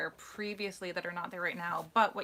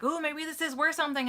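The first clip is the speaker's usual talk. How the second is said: imitating everyone; 8 semitones higher, 4 dB louder than usual. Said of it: "everyone's like".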